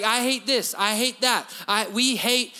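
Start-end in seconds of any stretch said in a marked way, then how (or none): 0.0-1.5 mock grumbling.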